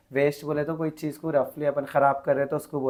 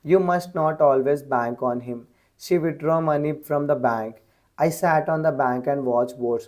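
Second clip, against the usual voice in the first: reads each word out very slowly and evenly; slow dictation reading; much slower than usual. Shown as a demonstration. Teacher reading an example sentence to students, slow dictation. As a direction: spell the sentence out slowly for the class.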